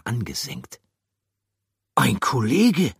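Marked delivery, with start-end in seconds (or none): 1.9-2.9 high, louder character voice. Acted. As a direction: announce a grim discovery.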